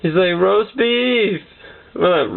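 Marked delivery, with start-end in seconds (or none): 0.4-1.4 higher-pitched mock sleep-talk outburst; raised-pitch cry, not truly shouted; mock scream. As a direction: call it out like a dreaming cousin. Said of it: "out there screaming out".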